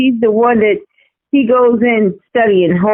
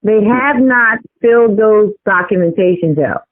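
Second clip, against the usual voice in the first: muffled. Real, not acted. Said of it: "he's muffled sounding".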